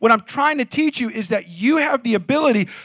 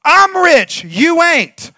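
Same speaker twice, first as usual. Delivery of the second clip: Shaq teasing; 8 semitones higher, 8 dB louder, much slower than usual. Retold or imitated. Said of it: "He goes".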